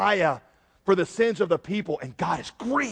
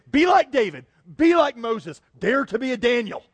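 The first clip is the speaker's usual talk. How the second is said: louder, punchy slogan delivery; rousing exhortation; 3 semitones higher, 4 dB louder than usual. Acted. Voicing the message they always heard, rousing exhortation. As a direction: urge them on like a motto. Mimicking the usual moral message.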